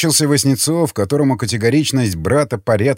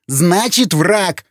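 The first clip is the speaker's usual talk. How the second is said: higher, emphatic insistence; raised voice; 6 semitones higher, much slower than usual. Acted. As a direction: insist over the objection. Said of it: "повысил голос Вячеслав". (настойчиво, повысив голос)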